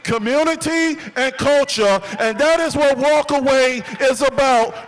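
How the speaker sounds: rally the crowd around each key word; rousing rally oratory. Real, not acted. Builds to rally climax.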